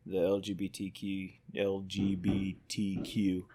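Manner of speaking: talking around a lip of dip; words thick from a dip of tobacco; lip full of dip. Real, not acted. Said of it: "Got a dip in my mouth".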